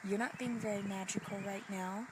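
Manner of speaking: soft, scornful inner critic; sneering inner voice. Retold or imitated. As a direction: hiss the doubt softly, like a voice in your head. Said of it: "what my little voice says".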